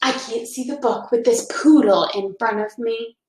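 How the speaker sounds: unvoiced mocking whisper; sneering hushed bark; teasing whisper. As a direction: whisper the taunt behind her back. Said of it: "Ralph whispered".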